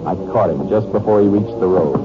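even, measured first-person narration over music; story narration. A narrator's reading. Detective telling the audience how he chased Bud, in calm narration. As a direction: recount the chase calmly, looking back.

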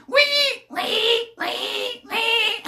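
a playful imitation of a keeper squealing at his defenders; mock pig squeals. Fan mocks rival keeper shouting at defenders, mock pig squeals. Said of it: "just imagine him going".

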